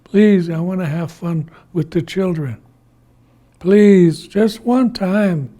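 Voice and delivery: lightly acted tearful begging; mock crying plea. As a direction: plead as if crying, stretching the words. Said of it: "He, he is crying".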